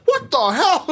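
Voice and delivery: high, laughing outburst of disbelief; shocked what the hell. Retold or imitated. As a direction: squeal it out in half-laughing shock. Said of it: "I'd be like".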